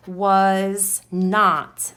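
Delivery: "was not" said firmly, each word separate; deliberate, weighted "was not"; emphatic WAS NOT. Shown as a demonstration. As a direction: land hard on "not" in "was not". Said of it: "put that in all capital letters".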